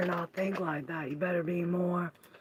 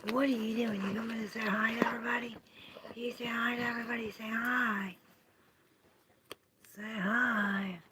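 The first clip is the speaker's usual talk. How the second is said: higher, cooing voice for a pet; sweet pet talk; 4 semitones higher than usual. Real, not acted. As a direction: coax the little one to say hi. Talking to a pet or child.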